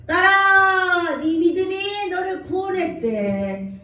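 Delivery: Jesus proclaiming. Acted. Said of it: "예수께서 이르시되".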